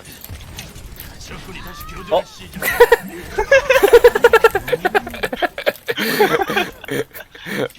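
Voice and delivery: high screaming burst of laughter; shrieking laugh. Real, not acted. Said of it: "어디서 비명 소리 났는데?".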